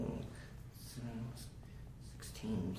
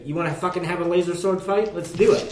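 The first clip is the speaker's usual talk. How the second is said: character taunt; 7 semitones higher, 5 dB louder than usual. Acted. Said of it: "I'm gonna take advantage on this and say".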